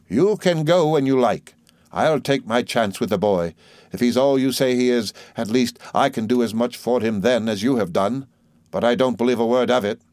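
a hint of a scornful aunt; aunt sending Murdstone away, defiant. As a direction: dismiss him, lightly voiced.

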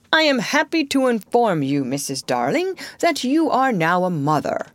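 lightly pompous mock-father announcement; imitating father. A narrator's reading. John plays father announcing a birth, imitating his tone. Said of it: "in just such a tone as Mister Darling".

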